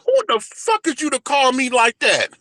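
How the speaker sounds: a furious challenge, pitched well up; through gritted teeth. Retold or imitated. Son confronting his father, angry and ready to hit him. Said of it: "I'm talking through my teeth".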